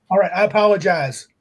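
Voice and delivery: a brisk, offhand apology; insincere apology. Real, not acted. Host told to apologize for calling a viewer a bot, insincere. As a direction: say sorry without sounding like you mean it. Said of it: "didn't sound very sincere".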